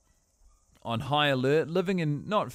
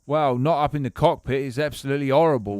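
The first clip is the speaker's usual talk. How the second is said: put-on English accent. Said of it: "talking like this".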